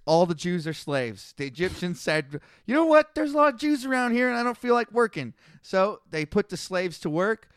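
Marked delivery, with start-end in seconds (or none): 2.6-5.3 lazy mock Egyptian. Egyptians voiced in Bible summary.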